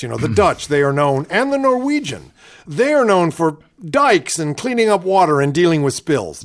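gently mock her halting cadence; playful Palin impression; imitating Sarah Palin again. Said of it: "I love the way she talks like this".

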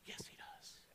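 a sneaky whisper; whispered aside. Retold or imitated. Preacher whispering a joking answer about the nut butter, sneaky whisper. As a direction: whisper it like a secret temptation.

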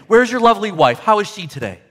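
sweet-talking reformed bird; over-polite parrot. Acted. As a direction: lay on the good manners. Reformed parrot being overly polite.

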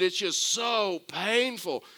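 high, drawn-out mock wail of pain; mock scream. Patient wailing after touching his knee, mock scream. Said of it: "again he starts screaming".

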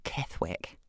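unvoiced rehearsal of Ketherick and Kethwick; whispered tries. Shown as a demonstration. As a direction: whisper the name, trying Ketherick then Kethwick. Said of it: "that's more fun".

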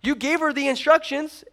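high, shocked "what the heck"; mock indignation. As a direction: play Elijah as baffled and put out. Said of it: "I'd be like".

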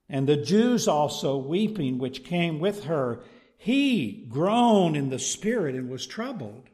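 measured, emphatic Bible reading; deliberate pulpit reading with key words punched; scripture reading. Acted. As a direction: read the passage out to a congregation. Reads scripture aloud to congregation.

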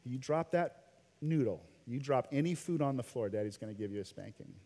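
calm, measured parental warning, softening at the end. Retold or imitated. Dad warning his toddler about dropping the noodle, real calm. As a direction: stay real calm, trailing down low and soft. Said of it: "real calm".

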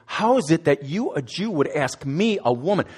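a mock shocked question, rising at the end; the Samaritan woman taken aback that a Jew asks her. Samaritan woman to Jesus, in mock shocked disbelief. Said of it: "but in a shocked way to say".

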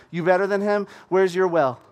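sassy woman taunting a stranger at the well; feisty challenge. Retold or imitated. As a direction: dare him to prove it. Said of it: "She's so feisty".

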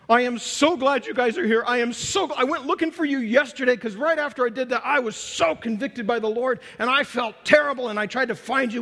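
imitating a remorseful man in tearful relief; tearful blubbering. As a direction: gush it out like a man near tears. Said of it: "all in tears and blubbering".

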